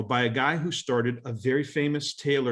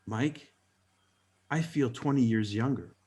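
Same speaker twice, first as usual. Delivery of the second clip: quiet, serious quote; deadpan serious; 2 semitones lower, 3 dB quieter than usual. Retold or imitated. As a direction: say it dead serious. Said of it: "he gets deadpan serious".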